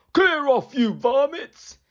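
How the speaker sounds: high, loud shout at the gulls. A narrator's reading. Keeper shouting at thieving seagulls, loud. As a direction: yell them away. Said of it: "shouted Mister Grinling".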